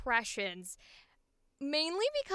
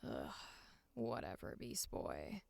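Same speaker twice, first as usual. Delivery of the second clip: very low, hushed cartoon deadpan; Raven impression; 14 dB quieter than usual. Shown as a demonstration. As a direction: grumble it softly, far below your usual pitch. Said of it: "sometimes I do a good Raven".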